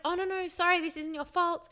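high, hurried-to-reassure voice; re-enacted reassurance, high-pitched; retold apology. Retold apology to upset partner.

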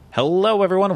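high bright hello; big cheerful hello to listeners; excited greeting. Real, not acted. Host greeting opening show.

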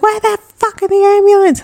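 high-pitched frantic retold cry; imitated panic. Panicking sister waiting for the ambulance, imitated high frantic cry. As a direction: mimic someone panicking for help. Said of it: "'cause she was panicking".

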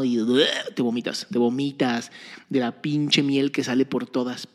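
rushed rant without a breath; all in one breath. Real, not acted. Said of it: "A ver, déjame respirar".

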